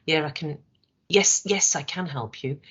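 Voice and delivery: reluctant, uninterested yes I can help you; grudging yes. Shown as a demonstration. Trainer showing staff an unwilling reply. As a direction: sound like you don't really want to help.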